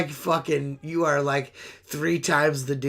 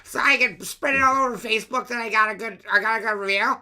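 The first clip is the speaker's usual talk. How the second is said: a hint of a whiny pleading ask; lightly mock begging for a review; needy asking voice; 6 semitones higher than usual. Comic mocks begging customers for reviews, lightly whiny. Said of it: "I hate asking".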